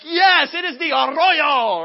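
loud, high, over-eager answer; all enthused. Retold or imitated. Runner confirms the arroyo to cyclist, enthused. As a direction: stretch it out with booming enthusiasm. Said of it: "And so I'm all enthused".

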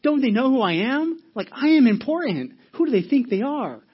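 loud, high-pitched road-rage outrage; mock indignation. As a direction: act out an affronted, self-important driver. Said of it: "Somebody cuts you off in traffic".

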